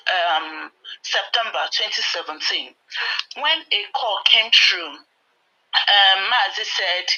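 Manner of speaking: trembling, unsteady voice; shaky voice. Real, not acted. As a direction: voice shaking with emotion. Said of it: "I'm sorry that my voice is shaking".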